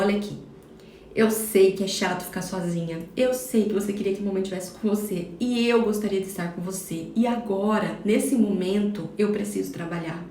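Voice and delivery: mother softly admiring her daughter's drawing, tender; gentle mom. Shown as a demonstration. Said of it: "dizer pra ela".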